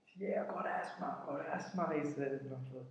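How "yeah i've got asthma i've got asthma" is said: higher whining plea of a captured thief; imitated whining thief, pitched up; pleading thief imitated. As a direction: beg like the caught thief with asthma. Captive pleads he has asthma.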